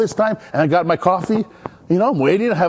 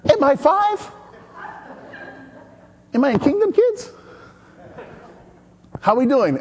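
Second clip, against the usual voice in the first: much higher, sarcastic "am I five"; mock indignant; 8 semitones higher than usual. Preacher retelling his sarcastic reply, much higher. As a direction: scoff like a grown man treated as a child. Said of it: "And I'm like".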